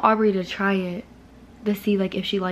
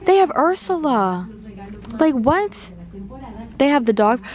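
high-pitched, incredulous protest; overwhelmed by it all, voice pitched up; playfully upset; 4 semitones higher than usual. Real, not acted. Shopper finding her favorite characters, playfully upset. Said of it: "I'm really upset right now".

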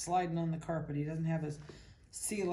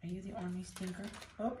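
ordinary talk

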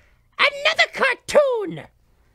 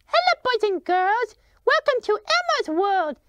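put-on beaming on-camera welcome to kids; overbright kids party host. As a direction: greet the children like a party host.

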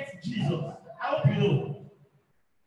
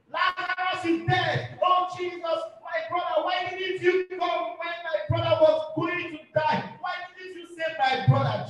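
higher-pitched, pleading reproach; mock complaint of a bereaved sister, voice raised in pitch; lightly acted lament; 5 semitones higher than usual. Sister asks Jesus about her dead brother, lightly acted pleading.

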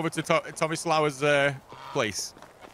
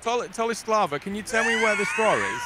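demanding shout; 4 semitones higher than usual. Real, not acted. Yelling at the villager for straw, exasperated. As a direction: yell the question at her.

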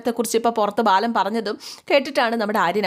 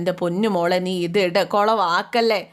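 softened coaxing; 2 semitones lower than usual. Acted. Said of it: "മയത്തി വന്ന്".

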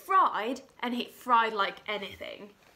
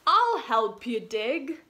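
hungry king; 7 dB louder than usual. Acted. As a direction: boom it out like a big kind king. Hungry king offers help.

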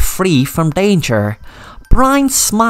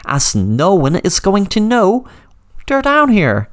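higher, sing-song villain taunting his captives; gloating villain; 4 semitones higher than usual. Acted. Brian gloats to Sam, mildly menacing. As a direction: savour every word of the trap.

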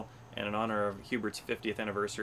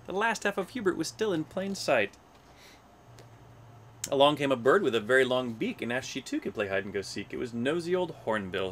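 story narration; 3 dB louder than usual. A narrator's reading. Reader recites Hubert the Lion's tale, animated story narration. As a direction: read a rhyming picture book with bounce. Reads rhyming story aloud.

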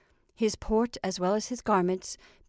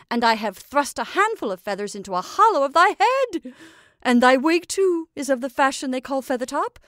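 proud witch; 2 semitones higher, 6 dB louder than usual. Acted. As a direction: gloat over your handiwork like a crone. Witch praising her creation.

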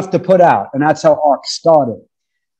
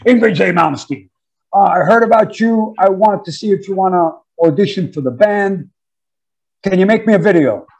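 imitating a guitarist; 2 semitones higher than usual. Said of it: "He put the J".

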